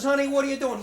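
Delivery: high, loud, baffled question; mother finding her son shoveling manure, astonished. Acted. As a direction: ask it in wide-eyed disbelief. Mother finds boy in manure.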